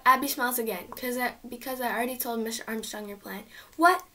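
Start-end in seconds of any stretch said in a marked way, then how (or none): 3.8-4.1 high, loud alarm cry; panicked alarm. Acted. Hugo sees the teacher coming, high panicked alarm.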